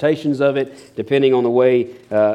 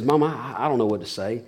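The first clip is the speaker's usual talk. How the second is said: mock whisper; 2 semitones lower, 6 dB quieter than usual. Shy little girl to her mom at the table, mock whisper. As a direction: lightly imitate a child whispering privately. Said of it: "whispers to her".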